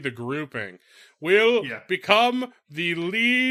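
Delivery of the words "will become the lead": grand, booming, pitched-up, high and loud voice. Retelling a voice through a magic portal: booming Kalandar-esque voice. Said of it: "this booming Kalandar-esque voice".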